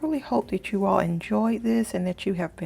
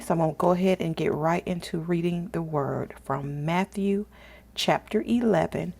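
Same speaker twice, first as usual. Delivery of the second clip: normal talking voice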